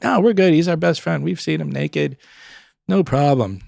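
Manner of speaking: high, insistent retold reassurance; breezy protest. Friends telling the nurse they will stay, insistent. Friends refusing to leave his side.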